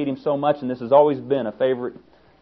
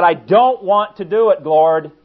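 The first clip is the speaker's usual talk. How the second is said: higher, louder plea of a weary prophet; pleading to God; 6 semitones higher, 8 dB louder, slower than usual. Retold or imitated. Jeremiah protesting to God, raised pleading. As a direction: cry out to God, reluctant. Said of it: "when he was verbalizing to God".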